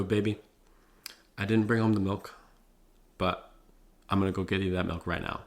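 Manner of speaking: gentle husband owning up to his woman; fully loving. Retold or imitated. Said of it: "fully loving".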